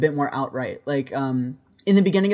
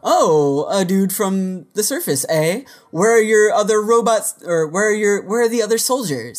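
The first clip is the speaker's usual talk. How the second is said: higher, louder gruff questioning stranger; hooded man voice; 5 semitones higher, 4 dB louder than usual. Retold or imitated. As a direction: play the suspicious little hooded man. Voicing the hooded man's lines.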